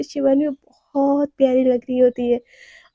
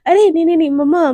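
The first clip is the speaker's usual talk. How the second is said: louder, quick apologetic protest; hasty backtrack; 6 dB louder than usual. Acted. Naina hurriedly stops her mother-in-law, flustered. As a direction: rush to smooth things over. Naina hastily corrects herself.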